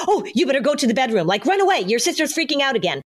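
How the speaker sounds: fake-frantic warning to the little brother; mock alarmed parent. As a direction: play the flustered parent rushing him away. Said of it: "as if to say".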